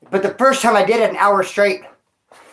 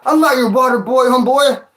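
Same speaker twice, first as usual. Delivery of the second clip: offended retort; 5 semitones higher, 4 dB louder than usual. Retold or imitated. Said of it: "He got offended".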